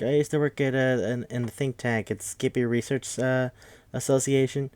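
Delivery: a hint of a sweet, vague old lady. Narrator voicing old Missus Paley looking for her dog, lightly old lady. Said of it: "from the old lady side".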